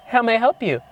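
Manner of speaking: mock polite woman. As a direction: imitate her answering the door. Acting out woman answering the door.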